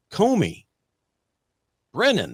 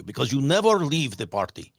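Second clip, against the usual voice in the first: bad Russian accent. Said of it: "I wish I could do a real Russian accent for you".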